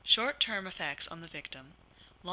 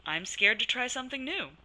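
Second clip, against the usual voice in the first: cheerful positive; 6 semitones higher, 6 dB louder than usual. Shown as a demonstration. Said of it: "Brandy used a cheerful, positive voice".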